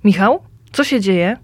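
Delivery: calling into the dark, worried. Acted. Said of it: "Woła". (wołanie z niepokojem)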